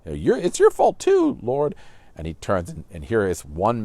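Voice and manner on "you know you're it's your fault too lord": high, loud nagging nurse voice; shrill-free scolding from the nurse, pitched way up; barging nurse. Retold or imitated. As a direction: nurse butting in, much higher and louder. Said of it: "the nurse even barges in and says".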